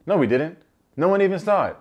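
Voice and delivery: retelling a guy caught out denying a kiss; mock panicked denial. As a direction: deny it in a flustered rush.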